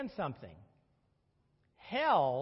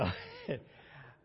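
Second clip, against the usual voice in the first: short high chuckle; brief real laugh, high-pitched; 6 dB quieter than usual. Real, not acted. Teacher breaking off his lesson to laugh, amused chuckle.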